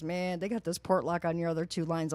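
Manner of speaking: mock clerk announcing. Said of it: "she goes".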